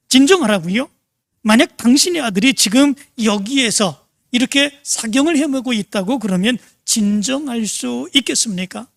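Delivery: a mild mock outburst that fades by the end; retold angry yell. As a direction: throw the word back at him, lightly acted. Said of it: "소리를 질렀다고". (가볍게 흉내 낸 분노의 외침)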